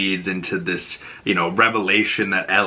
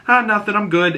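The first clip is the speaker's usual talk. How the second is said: brushing it off; 11 semitones higher than usual. Retold or imitated. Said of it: "And she goes".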